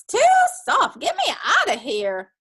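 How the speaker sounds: loud, urgent protest; loud complaint. A narrator's reading. Dusty Locks stuck in feather bed, loudly protesting. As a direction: call out loudly to be rescued. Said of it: "said Dusty Locks".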